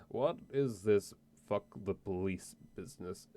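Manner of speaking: put-on slow, slurred drunk voice; lightly hammed-up tipsy drawl. Player tries a drunk voice on the barkeep, slow and slurred. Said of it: "How's my drunk voice then".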